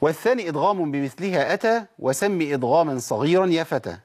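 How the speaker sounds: slow rhythmic recitation; verse recited to students. Shown as a demonstration. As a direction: chant the rhyme line steadily. Reciting the didactic poem.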